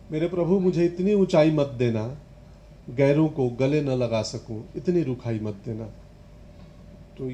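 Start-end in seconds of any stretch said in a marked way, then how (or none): 0.1-5.8 measured verse delivery; lightly declaimed poem; poetry recitation. Acted. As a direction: recite it as a gentle plea in verse.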